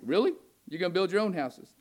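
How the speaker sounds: incredulous mock question with a rising "Really?"; sarcastic. God scoffing at the remnant, sarcastic. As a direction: needle them, disbelieving and sarcastic. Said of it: "It was sarcastic".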